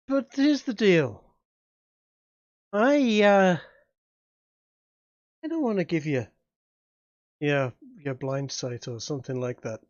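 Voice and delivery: lightly voiced demon, unhurried and bargaining; a smooth devil offering a contract; sly demon dealer. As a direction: GM as Seamus tempting the player. GM voices Seamus.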